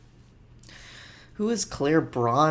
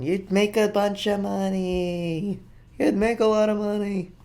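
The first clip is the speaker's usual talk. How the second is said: mock greedy schemer; 7 semitones higher than usual. Mock dealer voice, high.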